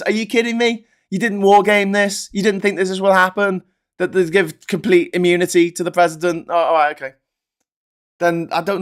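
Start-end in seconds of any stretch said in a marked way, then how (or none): 0.0-6.5 much higher, disbelieving questions; incredulous outburst. Real, not acted. Scolding Democrats in open disbelief. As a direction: demand answers in disbelief.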